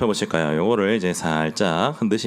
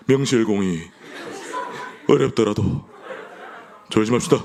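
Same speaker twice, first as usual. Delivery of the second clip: elder impression. Shown as a demonstration. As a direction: say 어렵더라도 at normal pitch, chuckling like Elder Kim. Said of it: "김혜경 장로님 따라한 겁니다".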